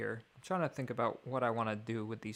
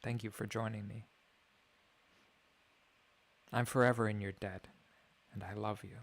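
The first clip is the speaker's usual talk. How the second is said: mock soothing voice. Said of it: "I have a very soothing voice".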